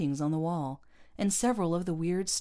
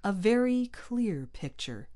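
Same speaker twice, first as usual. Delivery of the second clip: slow, higher-pitched tight demand; 6 semitones higher, 3 dB louder, slower than usual. A narrator's reading. Pete demands an explanation from the captain, tightly. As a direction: space the words out tightly. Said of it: "he said tightly".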